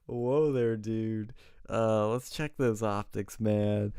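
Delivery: backing off a wild remark in mock alarm. Canvasser startled by a voter's threat, mock alarmed.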